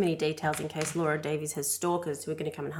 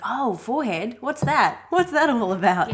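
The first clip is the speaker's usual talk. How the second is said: higher, startled voice; mock surprise; 5 semitones higher, 6 dB louder than usual. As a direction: act shocked at your forehead. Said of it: "I was like".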